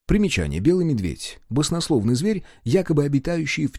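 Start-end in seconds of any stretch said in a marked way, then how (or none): none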